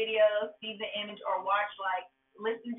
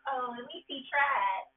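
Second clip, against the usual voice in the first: forgiving; 5 semitones higher than usual. Retold or imitated. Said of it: "she's accepting of it".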